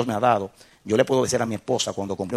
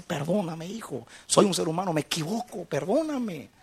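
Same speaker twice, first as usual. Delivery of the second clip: tender apology; 7 semitones higher than usual. Retold or imitated. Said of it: "lo abrazaba y decía".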